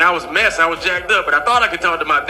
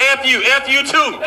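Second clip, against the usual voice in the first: parents trading insults, half-laughing; playful couple cussing each other out; lightly acted bickering insults; mock cussing match; 4 semitones higher than usual. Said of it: "That's their love language, cussing".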